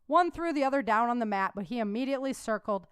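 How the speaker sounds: steady storyteller reading a novel aloud; audiobook narration. Acted. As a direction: read the chapter like an audiobook narrator. Reads audiobook chapter aloud.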